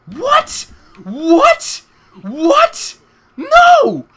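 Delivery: high, loud disbelieving what, ending in a scream; shocked yelling. Real, not acted. Gamer caught off guard by the map, shocked high yell. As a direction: yelp in real shock, then scream no. Sudden surprise in game.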